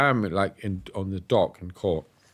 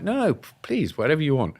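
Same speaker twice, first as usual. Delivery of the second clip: high, rushed eager agreement; anxious to please, pitch jumping up; flustered hurry to say yes; 5 semitones higher than usual. Retold or imitated.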